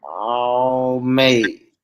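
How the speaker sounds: trying on a London "mate"; drawn-out stab at a London accent; attempted London accent. Told to fix up the London accent, attempted London accent. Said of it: "fix up that London accent".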